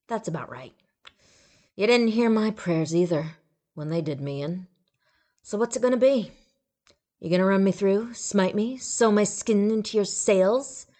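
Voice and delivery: taunting ghoul; bitter ghoul. A narrator's reading. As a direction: dare the god to strike.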